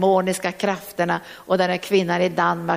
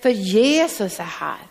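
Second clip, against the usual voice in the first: raised voice; 4 semitones higher, slower than usual. Shown as a demonstration. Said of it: "då måste vi höja vår röst".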